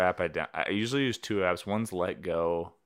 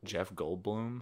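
Jeff Goldblum impression; 8 dB quieter, slower than usual. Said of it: "That was a horrible Jeff Goldblum impression".

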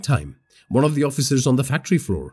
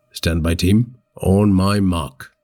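shouting orders over battle; 5 semitones lower, much slower than usual. Acted. Commander giving orders.

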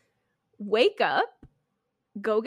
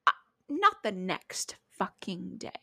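hushed whisper; 3 semitones lower than usual. Real, not acted. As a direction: drop to a breathy whisper. Whispered aside in a story.

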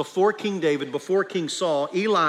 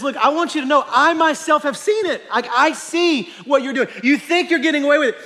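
higher, louder, near-shouted warning; God's warning; 10 semitones higher, 7 dB louder than usual. Acted. Preacher voicing God warning the hypocrites, loud and high. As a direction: call them out like a God who sees all. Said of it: "And he says".

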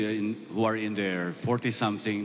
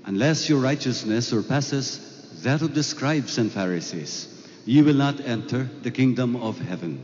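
Gospel reading. Acted. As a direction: proclaim it from the pulpit. Priest proclaims the Gospel.

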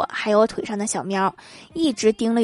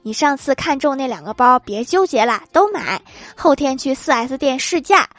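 a mildly raised, eager caller; excited; 3 semitones higher than usual. Acted. Caller on the wrong number, mildly excited about the bonus. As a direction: gush the good news a little. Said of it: "电话那头激动地说".

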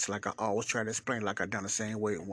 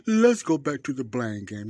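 louder, punchy topic call; loud announcement; 3 semitones higher, 9 dB louder than usual. Acted. Host announcing the next topic to listeners, loudly. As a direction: announce the blame game with a punch.

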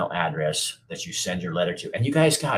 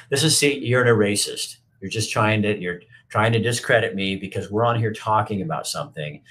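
angry outburst; 3 semitones higher, 4 dB louder than usual. Real, not acted. Streamer turns on a commenter calling him a racist, heated and loud. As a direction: lash back at the heckler, voice rising.

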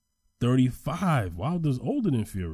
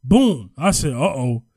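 loud, high-pitched, animated retelling; excited fight recap; 6 semitones higher, 6 dB louder than usual. Real, not acted. Boxing fan retelling a wild comeback to co-host, excited. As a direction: recount the knockdowns with rising excitement.

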